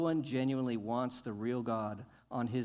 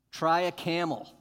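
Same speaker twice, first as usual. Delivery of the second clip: louder, punchy challenge; exclaiming; 2 semitones higher, 6 dB louder than usual. Real, not acted. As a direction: dare them to try it. Preacher mocks impossible task.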